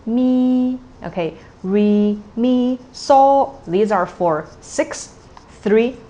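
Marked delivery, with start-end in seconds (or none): 0.0-3.6 solfege tone demo. Shown as a demonstration. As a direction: pitch each note on its tone level. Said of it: "tone three is in the middle".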